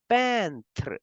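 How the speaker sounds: Peintre said slowly and clearly in French; French peintre repeated. Shown as a demonstration. Teacher repeats French word for class. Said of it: "we say".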